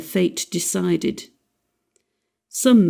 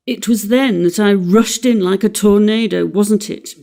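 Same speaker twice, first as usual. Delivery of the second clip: self-scorning; 2 semitones higher, 5 dB louder than usual. Acted. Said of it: "scorning himself".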